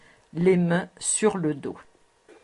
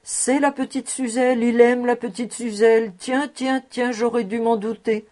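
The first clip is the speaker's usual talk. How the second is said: higher-pitched amazed exclamation; wide-eyed admiration; 4 semitones higher, 3 dB louder than usual. Acted. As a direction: marvel aloud at a sudden discovery. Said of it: "les yeux écarquillés d'admiration".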